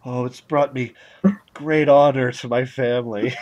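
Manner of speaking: solemn, honored fake Japanese accent; grateful actor, fake Japanese accent. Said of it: "fake Japanese accent".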